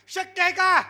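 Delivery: loud, high call to the crowd; rousing shout. Real, not acted. Preacher rousing the audience for an answer, rousing shout. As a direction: fire the question out loudly.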